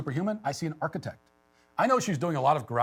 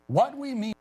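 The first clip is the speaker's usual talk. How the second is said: mock reading; 10 semitones higher than usual. Shown as a demonstration. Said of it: "Imagine this in the Boston Globe".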